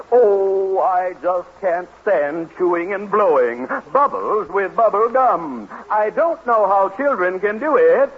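slow, drawn-out verse recital; poem recitation. Acted. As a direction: recite your own poem, stretching out the words. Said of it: "I've even written a poem about it. Listen".

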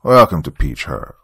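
a faint country twang, forced politeness; milder country accent. Acted. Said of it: "His accent wasn't as strong as the Reverend's".

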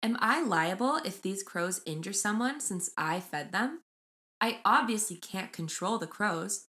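measured storytelling read; reading aloud. Acted. Host reading crow story to co-host, measured read-aloud. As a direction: read the post out evenly, phrase by phrase. Reads Reddit post aloud.

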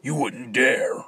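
alarmed. Acted. Alarmed loud objection.

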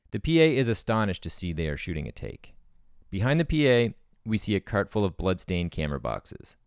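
dramatic screenplay narration; script read-through. Acted. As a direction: read the scene like a trailer. Reads the screenplay aloud.

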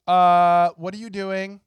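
a sudden indignant "what are you doing"; mock girlfriend voice. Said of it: "all you hear is".

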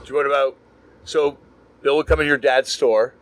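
normal talking voice

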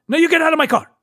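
mock an angry Persian driver ordering someone out; Persian accent. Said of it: "I'm doing the accent".

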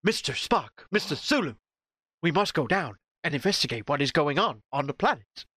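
lightly voiced Captain Kirk giving orders; a hint of a starship captain commanding; mild Kirk orders; Kirk impression. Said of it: "excellent James T K-, Kirk impression".

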